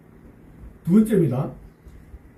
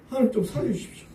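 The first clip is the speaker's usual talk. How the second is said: a hushed, higher plea for rescue, a hint of tears; soft tearful plea; 5 semitones higher, 4 dB quieter than usual. 눈물 흘리며 조용히 애원하는 목소리. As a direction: beg quietly, as if weeping. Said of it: "눈물 막 펑펑 쏟아내는 거예요".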